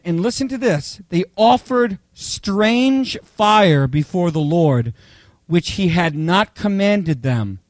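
slow, solemn Bible reading; scripture reading. Acted. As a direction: read it slowly and weightily to the congregation. Reads the scripture passage.

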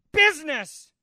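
high cried-out words of a grieving ghost; a hammed-up wail; mock ghost cry. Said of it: "the ghost cried".

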